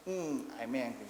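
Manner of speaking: mock grumpy, with a long humming Mm; caricatured anger. Shown as a demonstration. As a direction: playfully pretend to be cross. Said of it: "it's like a caricature. It's not real".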